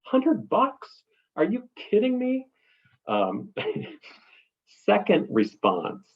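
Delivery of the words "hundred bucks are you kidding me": much higher, hammed-up outrage at the fee; shocked disbelief. Client hearing a hundred dollar fee, high shocked squeal. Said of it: "you're still gonna get".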